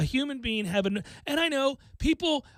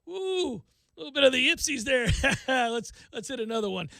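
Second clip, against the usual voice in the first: nervous laughter; 2 semitones higher than usual. Retold or imitated. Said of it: "everybody's got the nervous laughter".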